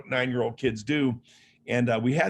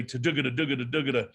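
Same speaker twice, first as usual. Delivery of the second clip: imitated heavy footsteps; faster than usual. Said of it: "hence the "tadugada" noise".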